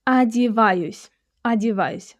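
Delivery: одеваюсь starting with an a sound; одеваюсь, first o reduced to a; unstressed o as a. Shown as a demonstration. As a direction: say одеваюсь as a-di-VA-yus. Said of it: "which is pronounced as a".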